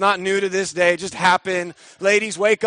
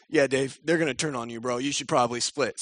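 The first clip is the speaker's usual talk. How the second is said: lower, softer laid-back bro voice; casual God; 6 semitones lower, 5 dB quieter than usual. Retold or imitated. Voicing God telling David to run, lower casual voice. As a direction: say it like a chill friend. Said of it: "And, and God says".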